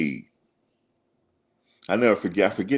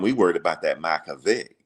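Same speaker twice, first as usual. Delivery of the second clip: imitating an old coach's country accent; lightly put-on country accent. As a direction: quote him in a country accent. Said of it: "he had the real country accent".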